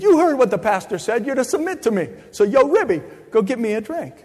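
high, loud cocky New York husband; smug New Yorker, pitched well up; New York accent. Retold or imitated. Husband citing the pastor to his wife, in a New York accent. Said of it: "in that New York accent".

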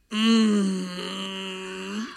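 long, low hesitant "mm"; soft drawn-out hum of reluctance; reluctant hum. Retold or imitated. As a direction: hum it quietly, unwilling to agree. Reluctant response to being told to tip.

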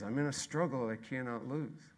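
soft, hushed conviction; softly spoken promise; quiet refrain. Real, not acted. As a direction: drop way down and say it gently.

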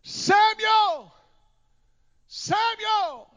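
high ringing call from afar; calling voice of God. Acted. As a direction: call his name like God from far away. God calls out to Samuel.

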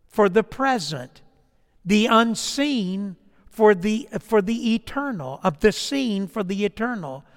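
slow, measured reading of a passage; unhurried pulpit reading; solemn quoted reading. Acted. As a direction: read it out slowly and deliberately, weighing each phrase. Reads a long quotation aloud.

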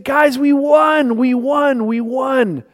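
high, thrilled shouts of victory; ecstatic cheering. Retold or imitated. Magic to his teammates after the title, ecstatic cheering. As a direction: bounce with joy, we just won. Magic celebrating the championship win.

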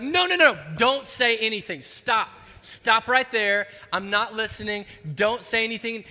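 high, loud no-no-no, covering his ears; frantic protest. Retold or imitated. Young Pierce cuts off his friend before the spoiler, frantic. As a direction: beg him loudly not to spoil it.

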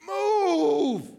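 high, loud mock yell at a slow driver; retold car scream. Pastor retelling his road rage, mock yell. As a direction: shout it like you're stuck behind him in traffic. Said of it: "doing that silent scream, like".

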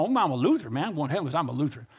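lightly imitated Texas drawl; a hint of Texan singsong. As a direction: mimic a step-grandpa's Texas twang. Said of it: "They're from Texas and had that draw".

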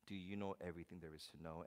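soft, quick, low aside; God quietly. Retold or imitated. God quietly pressing Job, soft and quick. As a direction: say it under your breath, pointedly. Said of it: "God is saying".

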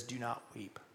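very soft, low and hushed, near tears; tender, tearful Jesus. Retold or imitated. Jesus to the grieving widow, tearful and tender. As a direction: gently hush someone through welling tears. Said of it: "Jesus' own eyes welling up with tears".

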